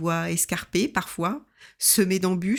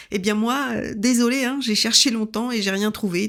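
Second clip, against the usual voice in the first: nervous laugh; 4 semitones higher, 4 dB louder than usual. Retold or imitated. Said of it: "je le montre et je ris".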